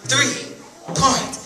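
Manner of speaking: slow, stretched repeat. Acted. Storyteller repeating the landing name, slow. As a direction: spell it out again.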